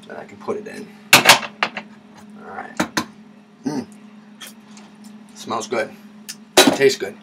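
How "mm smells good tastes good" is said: tasting off fingers; licking fingers. Real, not acted. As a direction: talk while licking fingers. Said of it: "sorry for licking my fingers".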